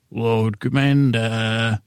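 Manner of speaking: slow, lightly voiced Stannis; a hint of grim Stannis, drawn out; Stannis impression. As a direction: stretch the two words out slowly. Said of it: "two words of Stannis".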